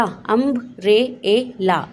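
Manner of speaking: अम्ब्रेला drawn out very slowly, the first अ held long; slow stretched. Shown as a demonstration. Teacher slowly stretches the word for children. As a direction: stretch out अम्ब्रेला so every sound is heard. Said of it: "आप उसे उसके phonic sound से पढ़ेंगे".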